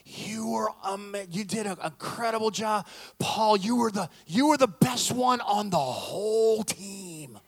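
imitating a grandmother pouring on praise; gushing praise. Grandmother to grandson after his game, gushing praise. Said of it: "pouring crazy amounts of praise".

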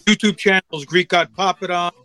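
choppy bad connection; breaking up. Real, not acted. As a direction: voice cutting in and out like a dropped call. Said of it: "You're breaking up".

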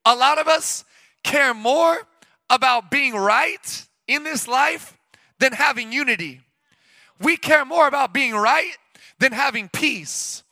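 slowed, each word weighted; slow preaching emphasis. Acted. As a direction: lean in and slow it right down.

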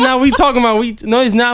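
can't get the words out without laughing; retelling a friend's lame denial, cracking up; laughing through a quote. Retold or imitated. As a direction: quote blurted out high while laughing.

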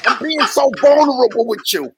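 mock-sincere outburst. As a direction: play up being emotional, pitched high. Joking mock-emotional outburst, crew laughing.

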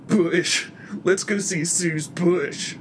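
loud, drawn-out exclamation; exclaiming. A narrator's reading. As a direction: call it out slowly and loudly. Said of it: "Pete exclaims".

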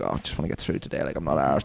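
low, soft can't-be-bothered voice; acting out weary apathy; tired. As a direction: drop low and quiet, as if worn out. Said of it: "I'm kinda tired".

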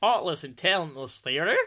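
put-on questioning Australian accent that slips into American; Australian attempt sounding American. Reading the Melbourne comment as a question, in botched Australian accent. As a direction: aim for Australian and land on American. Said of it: "No, it's not American".

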